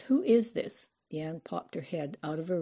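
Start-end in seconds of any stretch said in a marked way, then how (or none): 0.0-0.9 higher, louder sharp demand. A narrator's reading. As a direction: interrogate the caller on the phone. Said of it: "Into the receiver she demanded".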